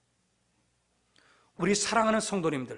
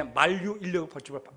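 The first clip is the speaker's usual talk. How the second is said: ordinary talk, nothing marked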